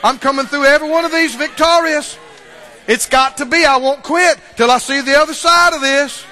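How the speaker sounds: loud, rising preacher's declaration; preacher at full force; preaching. Acted. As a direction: proclaim it like a sermon climax.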